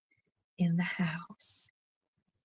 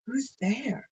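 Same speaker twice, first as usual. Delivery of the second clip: wolf trying to sound gentle, pitched higher; softened wolf voice; 5 semitones higher than usual. Acted. Wolf in grandmother's bed answers the door, faking a gentle voice. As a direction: put on a sweet voice to hide the wolf. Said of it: "softening his rough voice as best he can".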